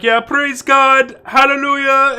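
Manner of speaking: high, slow hallelujah cry; hammed-up religious fervor, drawn out; mock praising. Scammer playing along talking religion, mock praising.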